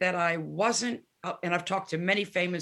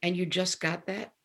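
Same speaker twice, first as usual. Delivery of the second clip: laughing retort; 3 dB quieter than usual. Retold or imitated. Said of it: "And she went".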